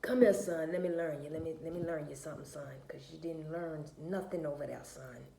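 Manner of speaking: a hint of a folksy granddad; granddaddy voice. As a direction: lecture like a granddad, easing off to the end. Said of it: "In my granddaddy voice".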